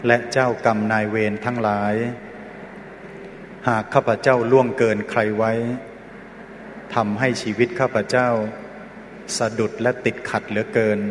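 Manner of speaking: measured phrases with long pauses to repeat after; led forgiveness prayer. Real, not acted. Monk leading children in asking parents' forgiveness, measured prayer recitation. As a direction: lead a congregation through a solemn recitation.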